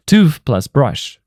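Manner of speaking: slow, Tooth plus brush each word separate; nouns said apart. Shown as a demonstration. Teacher shows learners the two nouns, said slowly apart. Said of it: "For example".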